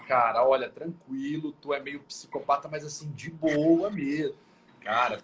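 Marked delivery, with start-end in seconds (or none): 0.4-4.4 slow, sugary calm with a sting; fake-friendly insult, drawn out; mock calm cynicism. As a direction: cynical serenity. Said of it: "super calma".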